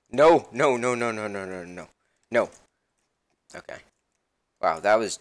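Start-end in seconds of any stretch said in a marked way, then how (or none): 0.1-2.5 laughing, loud at first, then fading; laughing no's. Real, not acted. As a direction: laugh through the denial. Laughing as he gets killed.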